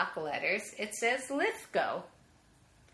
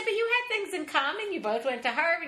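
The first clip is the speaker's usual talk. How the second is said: pleading; 9 semitones higher, 4 dB louder than usual. Retold or imitated. Pleading own retold argument.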